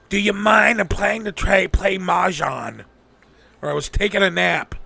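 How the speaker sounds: mocking, put-upon office clerk; bitty attitude. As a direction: imitate a lazy, annoyed clerk. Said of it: "I get the fucking bitty attitude".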